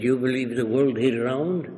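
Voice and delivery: lightly imitated Arab accent, rising question; Arab dialect. Arab leader challenges visitor on round earth, lightly imitated Arab dialect. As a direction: ask it in a hint of Arab-accented English. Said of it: "in a dialect".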